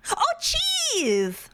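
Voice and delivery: cute voice. Acted. Cute voice at cheese link.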